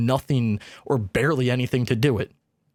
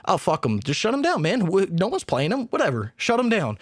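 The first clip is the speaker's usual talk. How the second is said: mock dismissive boss; 4 semitones higher than usual. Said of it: "They're just like".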